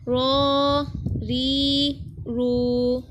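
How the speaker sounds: heavy rolled रॉ and रू, light री; full and thin ra. Shown as a demonstration. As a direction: round out रॉ and रू, thin री, all held long. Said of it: "हम रा को पुर पढ़ रहे हैं". (रॉ और रू पुर, री बारीक पढ़ें)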